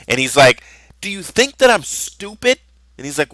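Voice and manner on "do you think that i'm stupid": indignant dad. Retold or imitated. Dad confronts lying brother.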